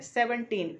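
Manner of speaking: सेवनटीन with weight on सेवन and टीन alike; stress on both parts. Shown as a demonstration. Teacher repeating the example word, सेवनटीन stressed on both parts. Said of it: "दोनों पे ही stress है".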